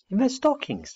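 very high, incredulous squeak of a question; astonished young owl. Acted. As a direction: pitch shoots right up in disbelief.

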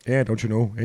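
mock Canadian accent, don't you know eh. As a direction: play up a Canadian accent lightly. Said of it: "Canada voice, eh?".

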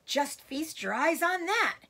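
high, loud and gleeful; exultant cry. A narrator's reading. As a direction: cry out, showing off a prize. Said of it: "cried Mister Fox, dancing up and down".

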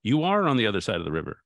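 mock call back with a punch on "are"; quick, half-hearted shout across a distance; mild retold shout. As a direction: lightly imitate shouting back, leaning on "are". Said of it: "he shouts back at her".

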